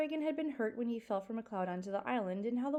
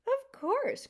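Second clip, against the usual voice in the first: croaking gull; 5 dB louder than usual. Acted. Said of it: "croaked the very old gull".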